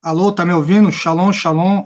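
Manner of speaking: thin phone-line voice; as if over a bad phone line; over a landline phone. Real, not acted. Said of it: "Eu não tô ouvindo não". (voz de telefone fixo)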